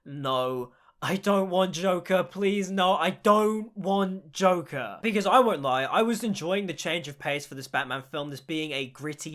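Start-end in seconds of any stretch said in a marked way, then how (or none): 0.0-0.7 low, dragged-out "no"; mock dread, low and drawn out; dismayed refusal. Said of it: "sunk in my seat and I was like". 1.0-5.0 hammed-up plaintive begging; drawn-out mock protest; dismayed pleading. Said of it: "sunk in my seat and I was like".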